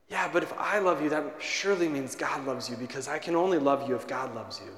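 low, soft retold reassurance; tender, hushed reply to someone hurting; gentle reassurance. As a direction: gently console him, letting the voice sink. Retold consoling of crying man.

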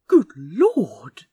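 awed breathless whisper; breathed. Acted. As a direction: breathe it out in shock. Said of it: "he breathed something".

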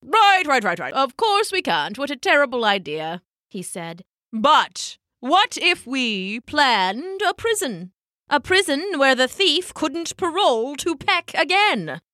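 covering his blunder; flustered elder penguin. Acted. Elder male penguin backpedalling, then proposing a prison.

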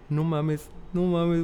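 a brother thrilled by the news; excited brother. Retold or imitated. Brother reacting to the coming out, excited. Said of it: "Así todo emocionado".

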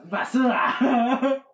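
slow, stretched "Basura" exclaimed; drawn-out exclaim. Pretend. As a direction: draw out "Basura" with glee. Echoed loudly, stretched.

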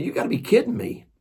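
high, fast, breathy gasp of disbelief; astonished disbelief. Retold or imitated. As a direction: blurt it out stunned, barely voiced. Stunned reply to missionary's news.

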